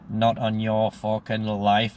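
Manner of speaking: slow, deliberate refusal; drawn-out, emphatic no; emphatic playful refusal. Retold or imitated. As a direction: spell it out word by word. Teasing refusal of life swap.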